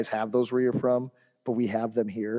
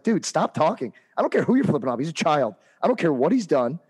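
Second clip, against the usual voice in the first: louder, higher scolding; heated scolding; 4 semitones higher, 4 dB louder than usual. Retold or imitated. Coach scolding the heckling dad, heated scolding. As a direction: cut off his excuses. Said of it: "And, and I was like".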